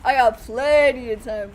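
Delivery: loud, cocky insistence on plenty; mock confident. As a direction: brag it loudly like nothing's wrong. Mocking confidence while in danger.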